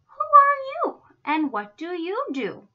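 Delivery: high, loud, haughty challenge; unfriendly. A narrator's reading. Giraffes question the cow, not very nicely. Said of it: "but not very nicely".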